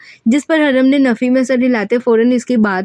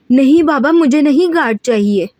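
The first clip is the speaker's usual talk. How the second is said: screaming refusal; 4 semitones higher than usual. Acted. Haram refuses the new guard to her father, screaming. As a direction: shriek it like a spoiled child refusing. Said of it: "हरम चीखती बोली".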